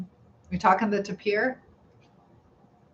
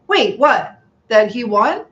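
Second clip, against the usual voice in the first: surprised; 2 semitones higher, 7 dB louder, slower than usual. Real, not acted. Hears surprising news.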